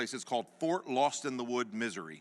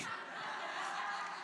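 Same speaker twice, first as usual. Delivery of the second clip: silent laugh; 11 dB quieter than usual. Real, not acted. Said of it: "I'm dying laughing".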